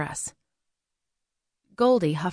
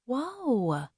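telepathic interjection; 6 semitones higher than usual. A narrator's reading. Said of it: "straight into my mind in the telepathic manner".

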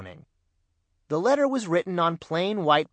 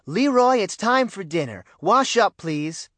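second call, louder and much higher on the name; 6 semitones higher, 5 dB louder than usual. A narrator's reading. Mother calling her son again, louder insistent call. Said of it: "Missus Brown called".

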